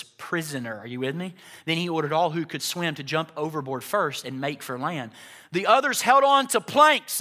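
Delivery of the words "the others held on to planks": preaching rise. Acted. Preacher lifts pitch, repeats.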